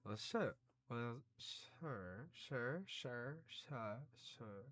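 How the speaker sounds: trying out a British accent, feeling for the vowel; tentative British pronunciation, tried over and over; attempted British accent. Shown as a demonstration. Streamer practising a character's lines in an attempted British accent. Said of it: "how do you do a British voice again".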